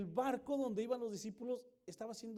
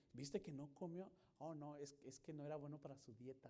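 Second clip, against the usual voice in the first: soft, lower gossip breaking into laughter; mock gossip; 5 semitones lower, 11 dB quieter than usual. Disciple joking about a diet in the boat, soft and laughing. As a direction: dish the gossip with a giggle.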